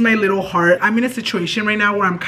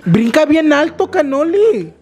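excited pet call; 7 semitones higher, 4 dB louder than usual. Real, not acted. Calling the dog to jump.

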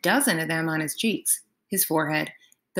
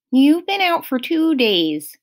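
higher, louder Grover; lightly voiced satyr; a hint of an anxious friend; 7 semitones higher, 5 dB louder than usual. A narrator's reading.

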